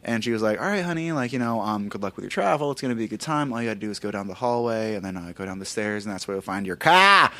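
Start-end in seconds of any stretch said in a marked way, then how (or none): 0.6-6.8 friendly cashier, imitated. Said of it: "so charming and so nice, spoke, you know, like the rest of us". 6.8-7.3 sudden loud r-less New England "car"; aggressive New England accent. Retold or imitated. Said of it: "so aggressively and out of nowhere".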